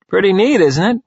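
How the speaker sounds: high, loud, pleased crow; gleeful boast in a high voice. A narrator's reading. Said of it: "Jimmy crows".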